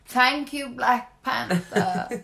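slow, drawn-out glam TV voice; Lisa Vanderpump voice. Pretend. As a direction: purr it like a reality TV star. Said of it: "You really sound like a panther".

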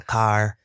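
lightly imitating Lewis saying "Car." with a drawn-out vowel; Lewis's car. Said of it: "it's the way Lewis says car".

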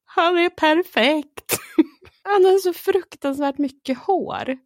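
imitating sister. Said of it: "hon bara".

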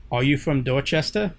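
lightly put-on Boston accent; Boston-accented voice assistant. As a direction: ask it with a dropped-r Boston twang. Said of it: "talking in a Boston accent".

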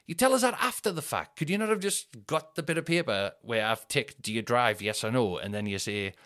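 exasperated protest. Retold or imitated. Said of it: "And I was like".

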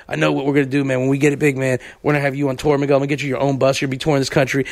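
a touch of Mike's big plans; Mike impression. Co-host imitates Mike promising a tour bus, low and earnest. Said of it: "my rock-band impression of Mike".

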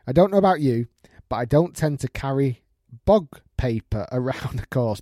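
storytelling from an email, a laugh creeping in; amused story read-out. Acted. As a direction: read it aloud as a comic confession. Reads out a listener's email.

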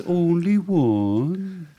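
high, very drawn-out Irish wife; horrible Irish accent. Acted. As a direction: stretch each word in stage-Irish. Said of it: "She says".

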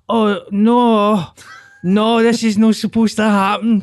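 high, wailing imitation of horrified protest; mock dismay. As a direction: plead in hammed-up disbelief. Voicing the embarrassed man in story.

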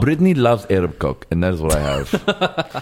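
lightly put-on Arab accent; Adnan. Boyfriend boasting about his girlfriend, mock Arab accent. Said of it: "with a thick Arab accent".

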